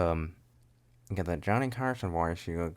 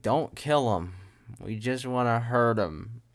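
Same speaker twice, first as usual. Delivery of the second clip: good-guy voice; 3 semitones higher, slower than usual. Acted. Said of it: "Like, the good guys".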